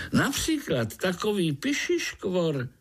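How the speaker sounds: very high, gushing, bubbly chatter; chattering frog. Acted. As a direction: Prague tree frog babbling nonstop. (švitořivá vysoká rosnička)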